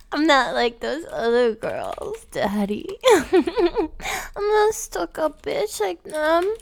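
put-on sweet, breathy e-girl act for a caller; girly gamer voice. Girl coos sweetly to Daddy on voice chat. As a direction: coo at Daddy, all sugar.

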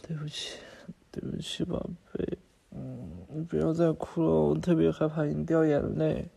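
hushed pleading, barely voiced; whispered apology. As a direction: breathe the apology close to her. Whispered apology to crying girlfriend.

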